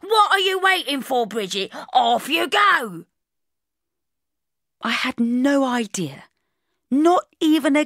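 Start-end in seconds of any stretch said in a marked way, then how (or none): 0.0-3.0 high, punchy hurry-up; impatient urging. Acted. Boss sending Bridget off, impatiently urging. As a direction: chivvy them off, pitched up, drawn out at the end.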